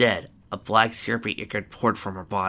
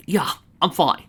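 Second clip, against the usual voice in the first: higher, louder reply; raised-voice answer to someone outside; called back; 8 semitones higher, 7 dB louder than usual. Acted. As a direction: call it back through a door. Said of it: "she called back".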